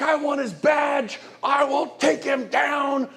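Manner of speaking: slow, high, loud mock furious shout; hammed-up outrage demanding his badge; angry client. Speaker imitates an irate seller wanting the other agent punished, shouting. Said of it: "All that negative energy".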